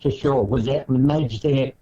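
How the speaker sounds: phone line cutting out; choppy breaking-up call; radio breaking up. Real, not acted. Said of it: "you're cutting out there".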